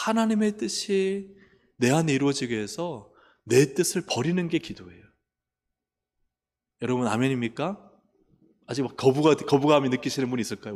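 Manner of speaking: ordinary talk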